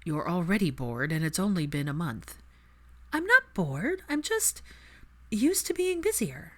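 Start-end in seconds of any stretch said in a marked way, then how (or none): 3.1-6.5 much higher, stress on not; indignant protest. Acted. Hermione protests to Draco, high and defensive.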